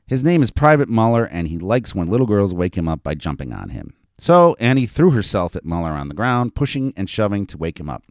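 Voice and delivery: animated reading of a story; story narration. A narrator's reading. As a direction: read it out to an audience with lively emphasis. Author reads own story aloud.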